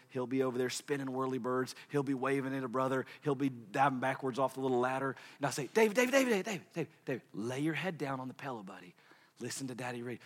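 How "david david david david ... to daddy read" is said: calling then soothing. Retold or imitated. Father calling restless son, calming.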